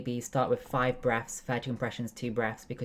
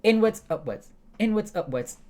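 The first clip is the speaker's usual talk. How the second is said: high, loud, punched Inwards, upwards; demonstrating thrusts; 8 semitones higher, 4 dB louder than usual. Shown as a demonstration. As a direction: call out each push of the Heimlich. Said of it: "Hand like this".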